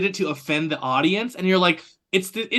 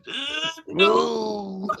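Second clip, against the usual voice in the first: laughing refusal; 7 semitones higher than usual. Retold or imitated.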